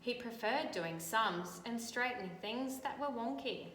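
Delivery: put-on bright, lively read-aloud for children; storybook reading. A narrator's reading. Teacher reading a picture book to children, lively storytelling. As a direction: tell the story to a class of kids.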